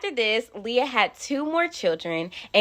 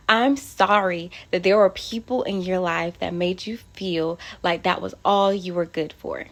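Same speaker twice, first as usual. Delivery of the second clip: tender apology. Real, not acted. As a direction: comfort each man listening. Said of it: "I'm getting emotional".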